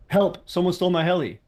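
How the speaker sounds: hammed-up helpless gamer wail; mock panicked player. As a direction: mimic a player begging for help. Mocking a panicked player's ticket.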